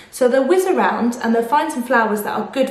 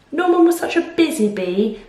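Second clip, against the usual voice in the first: sighed; 4 semitones higher than usual. Acted. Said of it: "sighed Amelia".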